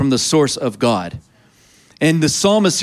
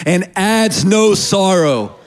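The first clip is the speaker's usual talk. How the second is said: higher, slow and emphatic; loud emphatic call-out; 4 semitones higher, slower than usual. Shown as a demonstration. Preacher has congregation repeat the last part, loud and emphatic. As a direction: lead the crowd in saying it loud. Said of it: "Say that last part loud".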